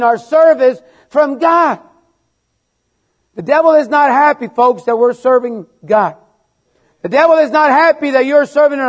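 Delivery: fervent preaching. Acted. Preaching against the devil.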